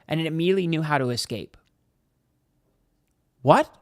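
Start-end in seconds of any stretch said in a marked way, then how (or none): 3.4-3.7 baffled what. Real, not acted. Baffled by the bird's escape.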